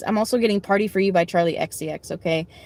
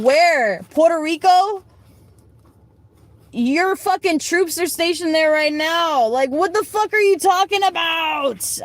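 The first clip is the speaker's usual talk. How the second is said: retold angry retort; 6 semitones higher than usual. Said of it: "I said".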